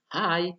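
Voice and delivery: "Hi" pitched high, then falling; drilled "Hi", high onset with a falling tail; falling intonation. Shown as a demonstration. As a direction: start "Hi" high and let it drop at the end. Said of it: "nadanya, intonasinya sudah menurun".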